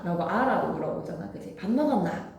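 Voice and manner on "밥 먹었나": Gyeongsang dialect. Shown as a demonstration. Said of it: "경상도 사투리에".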